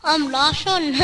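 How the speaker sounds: lightly put-on Russian accent. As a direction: have a playful go at a Russian accent. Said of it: "I was doing an accent".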